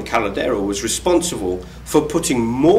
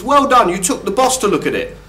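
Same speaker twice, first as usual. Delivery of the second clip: sarcastic praise; 7 semitones higher than usual. Acted.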